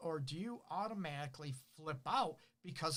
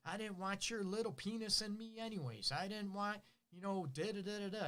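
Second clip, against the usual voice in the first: higher, mock spiteful berating; 5 semitones higher than usual. Hurt partner berates the other, mild mock spite. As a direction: act out a nasty put-down, lightly.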